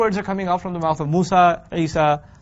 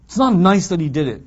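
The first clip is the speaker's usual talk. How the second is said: put-on childish whining, growing louder; mock whining; 3 dB louder than usual. Teacher voicing a whiner, mock whining louder. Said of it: "and say".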